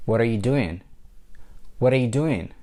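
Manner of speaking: "What are" blended into "water"; linked speech. Shown as a demonstration. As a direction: run "What are you doing" together, are reduced to er. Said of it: "the word are is blended together with".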